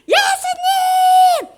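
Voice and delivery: high, drawn-out group shout; shouting from afar. Acted. Ten lepers shouting to Jesus from outside the village, loud. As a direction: yell the name, stretching each syllable. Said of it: "마을 바깥에서 막 소리를 지는 거야".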